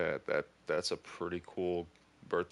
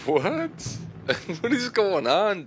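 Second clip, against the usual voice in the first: loud, high, laughing shout of disbelief; real stunned outburst with a laugh; shocked yell; 13 semitones higher, 11 dB louder, slower than usual. Real, not acted. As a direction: blurt it out, floored by the surprise. Birthday car surprise in game.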